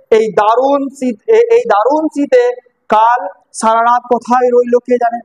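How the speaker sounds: slow, mildly tearful retelling of the mother's words; a touch of tears, drawn out slowly. Retold or imitated. Mother worrying through tears about her runaway son. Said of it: "অশ্রু শক্তি স্বরে বলল".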